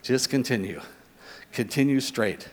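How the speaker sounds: low, soft sat-nav prompt; GPS voice. Retold or imitated. Preacher quotes GPS keeping drivers straight, low navigation voice. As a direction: lightly mimic a navigation system. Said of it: "on my G P S when it says".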